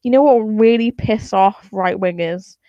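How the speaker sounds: lightly voiced conspiratorial scientist; mock-excited plotting whisper among scientists. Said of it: "decided that".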